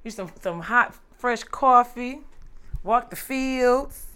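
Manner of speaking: slow, drifting daydream voice; dreamy country idyll. Pretend. Guest daydreams of Southern life to the host, slow and dreamy. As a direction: savor each word like a peaceful picture. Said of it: "Why did this turn into The Color Purple?".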